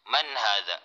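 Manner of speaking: "Man hadha?" said falling, no rising tune; flat question. Shown as a demonstration. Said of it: "wala siyang tono na patanong".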